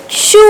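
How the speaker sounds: चू with a long, held "oo"; syllable demo. Shown as a demonstration. Teacher showing how it is said, चू drawn out. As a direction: stretch the vowel of चू. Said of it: "तो इसको बोलेंगे".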